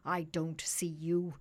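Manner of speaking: loud, indignant king, starting fast; outraged royal outburst; crying out. A narrator's reading. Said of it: "cried the king".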